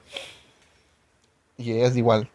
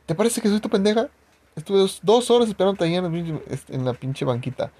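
higher, sharp mock-angry scolding; a touch of furious girlfriend; 5 semitones higher than usual. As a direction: imitate her chewing him out. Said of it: "bien enojada me dice".

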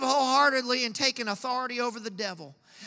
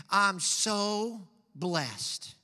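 contented tither; 3 semitones lower, 4 dB quieter, much slower than usual. Retold or imitated. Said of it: "they always say the same thing".

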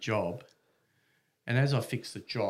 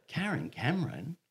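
higher, swooping pitch on the name; incredulous question; 6 semitones higher, 3 dB quieter than usual. Retold or imitated. Bystander overhearing a familiar name, incredulous. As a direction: query the name in amazement.

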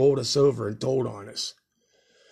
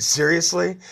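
higher, louder incredulous question; can't believe the luck; pitched-up shocked seriously; surprised disbelief; 6 semitones higher, 5 dB louder, slower than usual. Retold or imitated. Disbelief at dad's reaction.

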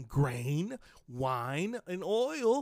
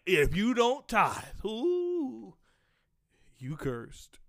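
imitating money-hungry preachers; 4 semitones higher, much slower than usual. Preacher mimicking others who want extra money, mock warning. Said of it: "They'll come up saying".

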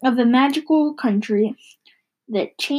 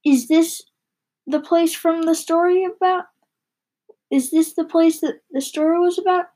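put-on boy's questioning voice; 5 semitones higher than usual. Haroun asks father, child voice.

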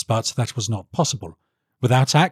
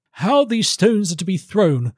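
high-pitched, disdainful challenge; high baronial scorn; scornful baron; 7 semitones higher than usual. Acted. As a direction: pose it as a high-voiced, sneering courtier. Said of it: "The baron smiled scornfully".

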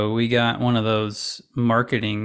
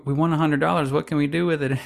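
put-on higher, quick excited kid chatter; 5 semitones higher, faster than usual. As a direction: gush like kids who just won money. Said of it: "of, like".

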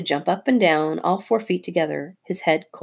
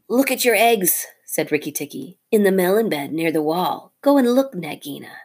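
bait the snake; taunting mongoose; 2 semitones higher, 3 dB louder than usual. Acted. Rikki taunting Nagina about her eggs.

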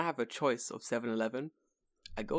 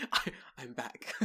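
laughing mock homecoming. Pretends to be home in UK.

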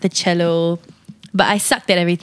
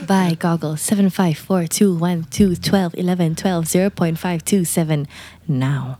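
infomercial call to action through laughter; laughing ad read. Pretend. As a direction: try to sell it while cracking up. Ad pitch continued, laughing.

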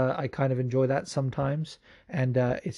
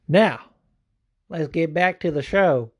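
mock show announcer; 4 semitones higher, 4 dB louder, slower than usual. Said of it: "No, just kidding".

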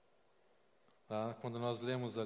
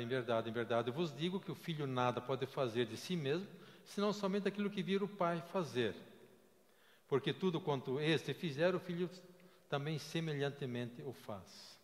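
scripture reading. Acted. Scripture read again.

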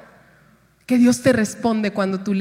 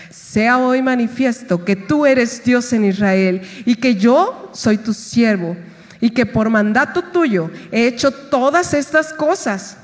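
slow, fervent scripture prayer; solemn prayer reading. Acted. Preacher reading Elijah's prayer to the congregation, solemn. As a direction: pray it out with weight.

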